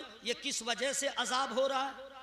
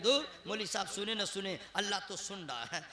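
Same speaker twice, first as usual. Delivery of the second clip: lowered, softer mock-timid voice; imitating soft speakers; 3 semitones lower, 5 dB quieter than usual. Preacher mimicking quiet listeners' excuse, mock-soft voice. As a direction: mimic someone murmuring an excuse. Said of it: "ladies की तरह धीरे धीरे बोल रहे".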